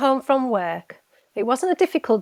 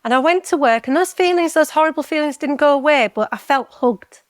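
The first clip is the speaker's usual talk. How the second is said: tearful; 4 semitones higher than usual. Real, not acted. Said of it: "I could cry thinking about it".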